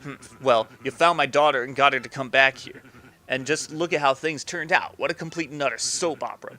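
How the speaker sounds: lightly voiced gangster boss, subdued; a touch of weary wiseguy; grudging mob boss. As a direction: concede the deal grudgingly.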